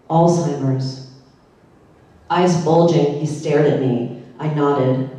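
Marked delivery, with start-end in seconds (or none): 0.1-1.1 spoken slowly. Retold or imitated. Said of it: "spoke slowly into his ear".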